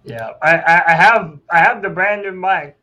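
distorted robotic headset voice. Real, not acted. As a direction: voice garbled like a cheap robot. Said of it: "me doing the robot voice thing".

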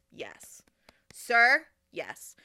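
hushed yes, then a loud sir; cheering. Retold or imitated. To the audience, silently cheering the man scolding Alana. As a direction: cheer him on inside.

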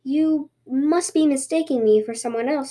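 lightly feigned innocence; innocent bunny. Acted. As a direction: play the bunny who knows nothing. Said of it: "said the bunny innocently".

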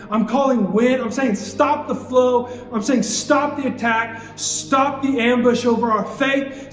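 rising, driving declarations, each line pushed harder; full-force preaching. Acted. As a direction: build the crowd up, hammering the refrain. Climactic preaching, rising intensity.

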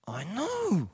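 high, drawn-out protest; rising irritation. Retold or imitated. Preacher resisting God's love, irritated. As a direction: stretch KNOW upward, impatient.

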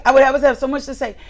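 "I would always have so much to say" rattled off fast; fast rushed repeat. Shown as a demonstration. Preacher mocking a nonstop talker, rattling it off fast. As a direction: rush it out like a chatterbox.

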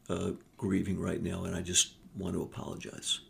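a hushed widower apologizing; grieving father. Retold or imitated. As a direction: speak through fresh loss, voice sinking. Grieving father after wife died.

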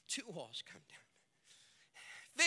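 very slow, each word drawn out; slow emphasis. Shown as a demonstration. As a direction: stretch it out for weight.

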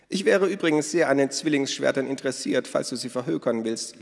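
loud, high, hearty woman's voice; boisterous Minna. Acted. Minna tells the children about their father, boisterous. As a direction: play her big and bold.

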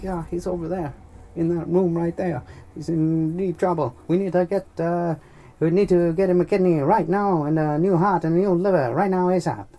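high, loud put-on voice; hammed-up medical alarm; urgent hospital worker. Staff urgently reports son's state.

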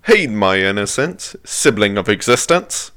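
lightly put-on British accent. Reader giving the truck line on request, mock British accent. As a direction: read it with a hint of British accent. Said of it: "read it in a British accent".

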